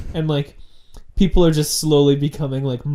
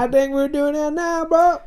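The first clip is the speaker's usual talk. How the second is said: high redneck twang; 14 semitones higher than usual. Acted. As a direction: keep the hillbilly voice going. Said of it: "in a redneck voice".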